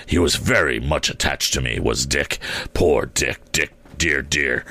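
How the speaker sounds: low, tender reminiscing; fond recollection. A narrator's reading. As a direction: murmur fondly over an old friend, pitched low. Scrooge fondly recalls poor Dick.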